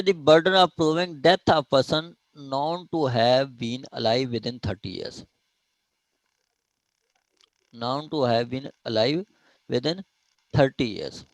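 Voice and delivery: reading the law out slowly, word by word; slow dictation. Shown as a demonstration. Teacher reading the section slowly to students, dictation pace. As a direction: dictate each phrase slowly for the class to follow. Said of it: "teacher reads section slowly aloud".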